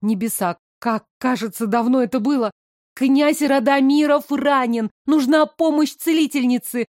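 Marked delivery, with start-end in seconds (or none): 2.9-6.9 urgent shout. Acted. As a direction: shout the alarm. Calling urgently for help.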